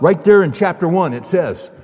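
loud and high, jubilant; joyful loud proof; triumphant exclamation. Retold or imitated. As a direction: blurt it out like the answer is obvious. Convert's triumphant answer to MacArthur.

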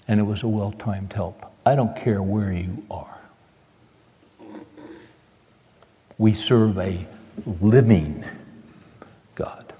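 whispered, intense and slow; preacher whispering to the congregation, hushed intensity. Real, not acted. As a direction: draw them in with a whisper. Sermon climax, hushed.

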